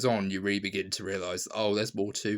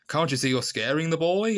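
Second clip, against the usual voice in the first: raised, higher-pitched retold shout; mock shout; 7 semitones higher, 5 dB louder than usual. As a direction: call it out loud, imitating an exasperated actor. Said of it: "he even just shouts".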